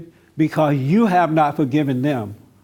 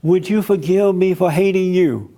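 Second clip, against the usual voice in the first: slightly raised pleading question; wrong way, asking; 2 semitones higher than usual. Shown as a demonstration. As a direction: ask it as the wrong apology. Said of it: "You don't ever go to them and say".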